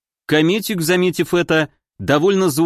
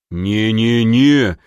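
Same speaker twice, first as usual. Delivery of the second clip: slow, wavering, lower no-no-no; unsure refusal; 4 semitones lower, 3 dB louder, much slower than usual. A narrator's reading. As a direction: back away from it, losing conviction. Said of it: "повторил Магнус ещё менее уверенно". (неуверенное «не-не-не», медленно и ниже)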